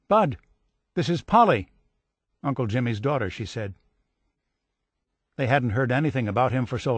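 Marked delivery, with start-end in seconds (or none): 0.1-3.3 lightly voiced young girl, thrilled; excited girl. A narrator's reading. Cousin Polly excitedly naming herself on the phone. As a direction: tell him who you are, breathless with joy. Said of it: "She was very excited".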